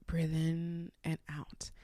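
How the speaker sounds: softly pace someone through breathing; calming coach. Retold or imitated. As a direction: imitate a soothing talk-down, drawn out slowly. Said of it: "Her voice is so calming".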